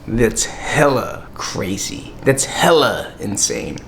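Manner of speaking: slow, stretched mock local slang; lightly mocked Las Vegas talk; imitated local slang. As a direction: draw out HELLA like a local. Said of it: "Here they say".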